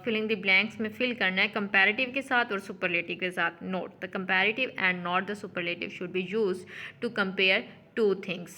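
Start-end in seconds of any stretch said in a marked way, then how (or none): 3.5-8.5 a slow, careful reading of the example sentence; slow textbook reading. Shown as a demonstration. Teacher reads the example sentence to students, slow and careful. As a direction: read it out word by word for the class.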